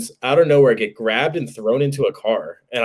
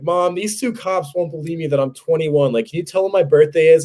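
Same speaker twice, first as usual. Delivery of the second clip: higher-pitched retold plea; pleading with mom; 5 semitones higher than usual. Son phones mom while cops watch, higher mock pleading. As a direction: act out appealing to your mother for backup.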